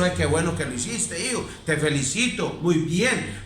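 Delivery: tender praise. Retold or imitated. A parent praising their child softly. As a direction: coo approval at a child.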